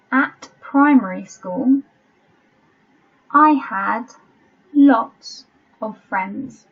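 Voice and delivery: slow, spaced-out dictation reading; measured teacher dictating to a class. Shown as a demonstration. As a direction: read it out slowly with long pauses between phrases. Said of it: "I'll read it slowly".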